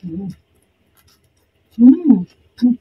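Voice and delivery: chewing with closed mouth; humming while chewing; mouth full of noodles. Real, not acted. Seen 2: Noodles put in mouth at 0.4, then chewed; no cucumber seen.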